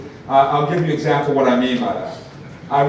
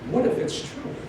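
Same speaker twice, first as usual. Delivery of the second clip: hushed, higher what if; whispered echo; 7 semitones higher, 7 dB quieter than usual. Acted. Speaker echoing the wife to the audience, hushed. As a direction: let it hang in a whisper.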